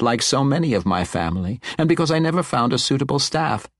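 high, tumbling jumble of excited words; animated old wizard. Acted. Old wizard marvels at the long-wanted gem, animated and rambling. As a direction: ramble excitably, pitch climbing as you go. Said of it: "Kipper's animated state".

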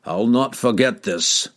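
yell. A narrator's reading. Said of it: "Kemp yelled at him far down the hill".

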